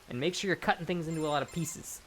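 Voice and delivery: whispered tip, no voice at all. Shown as a demonstration. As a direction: lean in and whisper the advice. Tip suddenly unvoiced.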